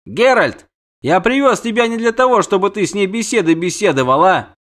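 high-voiced impatient prince; exasperated prince. Prince scolds the witcher for chatting, exasperated.

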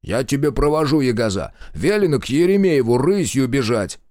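a loud, stern rebuke; scolding hush. A narrator's reading. The commander snaps at his scout to get moving, stern. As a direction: shush her like a cross father. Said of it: "цыкнувший на Ерохину".

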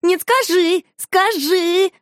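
put-on high, loud, demanding child; insistent pestering. A narrator's reading. Shusha presses the lady, high and insistent. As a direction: pester and press like a stubborn kid. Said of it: "напирала Шуша".

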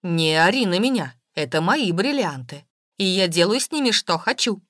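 loud, defiant comeback; angry retort. A narrator's reading. House owner defends her right to her diamonds, angry retort. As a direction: snap back loudly. Woman fires back in quarrel.

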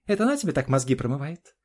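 очень высоко и громко, с вызовом; огрызайся в ярости; гневно. Acted. Жена кричит на мужа. (жена кричит на мужа, высоко и громко)

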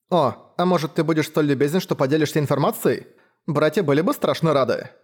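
a sly little tease; teasing young woman. Acted. Leila teases the hunter.

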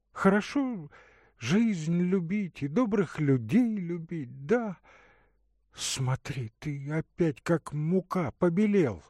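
put-on a caring young woman offering water; Katerina's voice. Katerina speaking.

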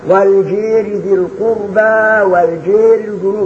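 slow recitation, الجار as الجير; imala. Shown as a demonstration. Teacher demonstrates the taqlil reading to students. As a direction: lean الجار toward e. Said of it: "بفتح الاثنين".

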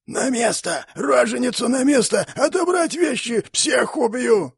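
high, hoarse monster scream; monstrous keeper screaming at the escaping woman; strangled hoarse cry. Acted. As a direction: shriek it out choked and raging. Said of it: "сдавленный сиплый крик".

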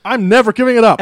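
never punched, loud and high; insist, refusing to back down. Real, not acted. Teasing Brian, loud insistence.

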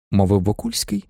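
ordinary delivery

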